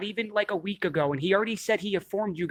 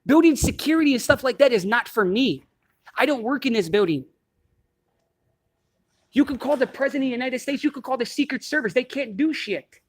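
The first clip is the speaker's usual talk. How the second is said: heated argument; 4 semitones higher than usual. Real, not acted. Heated argument with building security.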